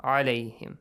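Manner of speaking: عليهم with a throaty ayn at the start; correct ayn. Shown as a demonstration. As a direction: squeeze the mid-throat to open عليهم. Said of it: "the pronunciation of ayn".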